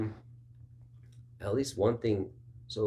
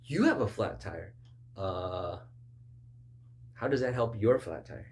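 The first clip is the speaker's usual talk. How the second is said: offended, indignant pushback; offended retort. Retold or imitated. Offended listener pushing back at the preacher. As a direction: snap back like someone insulted. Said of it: "and you'll be offended".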